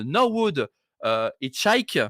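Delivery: English names with a strong French accent; rotten English accent. Real, not acted. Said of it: "vraiment accent anglais pourri".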